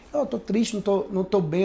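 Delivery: quiet sad confession. Retold or imitated. Repeating his sad words.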